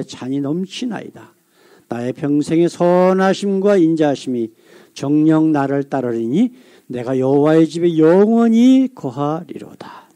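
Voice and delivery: slow, solemn scripture reading with drawn-out verse endings; psalm recitation. Acted. Pastor leads congregation through Psalm twenty-three, slow formal recitation. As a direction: recite phrase by phrase, letting the last word fade.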